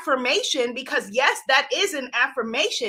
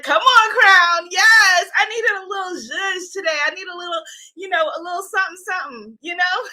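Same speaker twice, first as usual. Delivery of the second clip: reading a comment; 5 semitones higher, 5 dB louder, faster than usual. Retold or imitated. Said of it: "Goddess Carla said".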